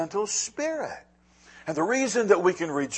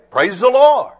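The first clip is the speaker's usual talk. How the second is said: put-on kids praising; 8 semitones higher, 12 dB louder than usual. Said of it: "they were supposed to raise their hands and say".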